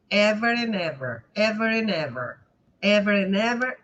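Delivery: "ever and ever" run together; linked words. Shown as a demonstration. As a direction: drop the D of "and" and join it to "ever". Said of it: "uma consoante".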